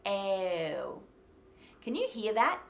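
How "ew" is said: "ew" starting on an E instead of ah; long, drawn-out "ew" as a wrong Australian O; mistaken O. Shown as a demonstration. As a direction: start narrow on "eh" and glide through "ew". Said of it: "not starting on an E".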